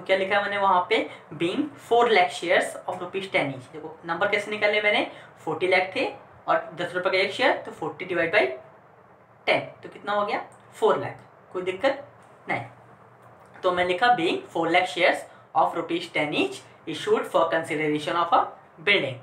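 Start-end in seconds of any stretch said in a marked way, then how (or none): 1.4-3.7 slower, measured reading out; slow dictation. Shown as a demonstration. Reading out the narration entry. 14.2-19.1 slow, measured reading of an entry; slow dictation. Shown as a demonstration. Dictating the narration to students.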